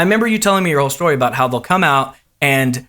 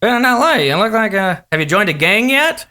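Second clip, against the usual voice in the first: lightly imitated host, a higher pitch; Jay; 5 semitones higher than usual. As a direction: tease the newcomer in a host's patter. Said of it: "And he's like".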